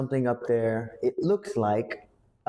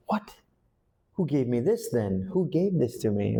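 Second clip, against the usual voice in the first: confused surprise; 2 semitones higher than usual. Shown as a demonstration. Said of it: "You're so, so surprised".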